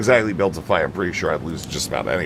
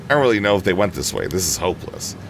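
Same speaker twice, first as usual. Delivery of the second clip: panting between words out of breath; breathless after a run, words gasped. Acted. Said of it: "I'm completely out of breath".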